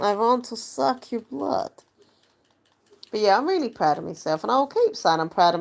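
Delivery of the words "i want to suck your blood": slow mock vampire, pitched up; hammy Dracula line, drawn out. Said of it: "Like vampires almost".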